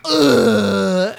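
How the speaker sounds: loud, high, long fake sob; imitated crying groan; mock anguished wail. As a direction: wail it like an overacting actor. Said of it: "looked at me and goes".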